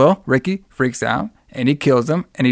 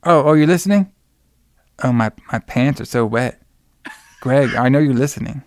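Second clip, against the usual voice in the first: man doing a woman's voice. Retold or imitated. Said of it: "the girl's voice on there".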